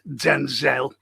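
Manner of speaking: "Denzel" pointedly said as den-ZELL; corrected DENZEL. Retold or imitated. Retort to the person who corrected the name, "Denzel" pointedly as den-ZELL. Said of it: "it's Denzel".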